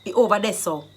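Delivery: curt retort with attitude; answering with attitude. Shown as a demonstration. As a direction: give attitude straight back. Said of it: "attitude begets attitude".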